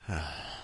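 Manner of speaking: soft, low sigh; weary sigh. Real, not acted. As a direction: let out a short, tired sigh. Sighs before complaining.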